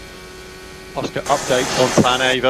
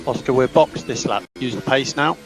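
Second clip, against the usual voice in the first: crackly team radio, engine noise behind; short radio calls to the driver; clipped radio over engine roar. Real, not acted. Team radio during race.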